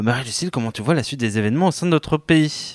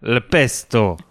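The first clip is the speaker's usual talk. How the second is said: southern accent; much slower than usual. Shown as a demonstration. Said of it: "un mot qu'on n'imagine pas dit sans cet accent".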